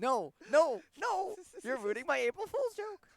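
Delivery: high, loud panicked protest; loud mock outburst. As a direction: yell it in mock outrage. Mock outburst over tag.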